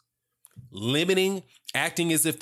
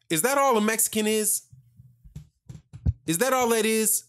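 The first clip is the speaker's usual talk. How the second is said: higher, incredulous demand; indignant challenge; 8 semitones higher than usual. Real, not acted. Commentator confronts the coach, incredulous and higher. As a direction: throw the question back at him, offended.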